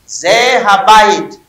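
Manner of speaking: Ze Habayit drawn out syllable by syllable; slow model reading. Shown as a demonstration. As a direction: say Ze Habayit slowly so students can copy. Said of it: "teacher models Hebrew words slowly".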